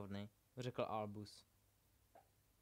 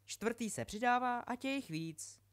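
talking book; 9 semitones higher, 5 dB louder than usual. A narrator's reading. The book speaks again.

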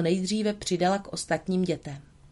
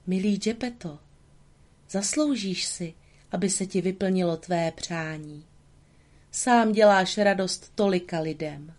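rustling fairy voice. Acted. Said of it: "zašuměl její hlas".

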